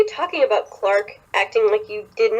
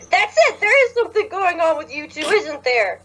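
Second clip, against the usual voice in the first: gleeful accusation; 7 semitones higher than usual. Acted. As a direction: pounce on the secret. Jasper catching them.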